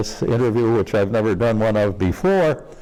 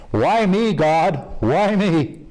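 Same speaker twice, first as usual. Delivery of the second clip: high-pitched plea to heaven; hammed-up "poor me" wail; mock lament; 8 semitones higher, much slower than usual. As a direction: cry out like a luckless farmer. Joke farmer cries out to God.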